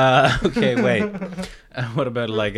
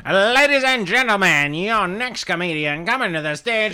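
eighties MC voice. Acted. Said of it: "in your best eighties M C voice".

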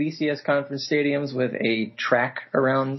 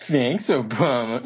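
smirking; slower than usual. Shown as a demonstration. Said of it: "it just comes out with a smirk".

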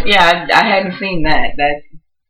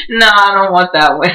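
laughing; 4 semitones higher, 4 dB louder than usual. Real, not acted. Laughing reply.

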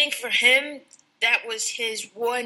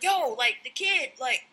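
higher, frantic Chris yelling at his crew; mock panic; 7 semitones higher than usual. Chris yelling at his crew about the girl, frantic and higher. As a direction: voice him losing it. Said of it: "So he's spazzing".

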